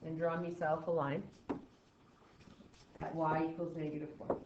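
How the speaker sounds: light mock Irish lilt; playful leprechaun voice. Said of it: "I like sounding like a leprechaun".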